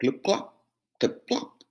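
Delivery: steady clopping hooves; heavier hoof steps. Acted. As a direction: middle goat's hooves. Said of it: "went his hoofs".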